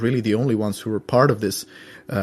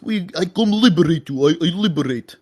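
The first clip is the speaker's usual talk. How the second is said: high-pitched put-on propagandist voice; mock Russian liberator; 6 semitones higher, 3 dB louder than usual. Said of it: "the Russians always talk like this".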